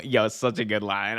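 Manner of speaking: usual speaking voice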